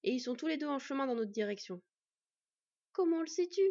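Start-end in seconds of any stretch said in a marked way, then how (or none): 2.9-3.6 high, loud insistent question. A narrator's reading. Anxious girl asking once more for proof, insistent questioning. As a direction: press for an answer, voice raised. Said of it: "demanda une nouvelle fois Sylveg".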